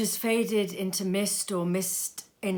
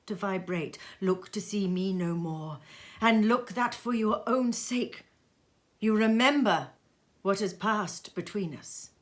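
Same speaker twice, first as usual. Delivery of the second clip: the ghost's voice, higher and louder, sinking to a whisper in the middle; solemn farewell that drops to a hush; grave ghostly decree, partly whispered; ghost's last warning; 4 semitones higher, 5 dB louder than usual. Acted.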